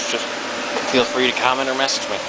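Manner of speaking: talking with hiccups; words broken by hiccups. Real, not acted. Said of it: "I have the hiccups today".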